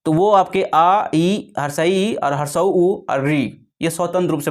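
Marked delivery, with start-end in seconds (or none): 0.6-3.7 आ, ई, ऊ, री said slowly and spaced; slow vowel listing. Shown as a demonstration. Teacher slowly lists free vowels to students, drawn out. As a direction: draw each vowel out slowly. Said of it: "जो बोले जाएंगे आ".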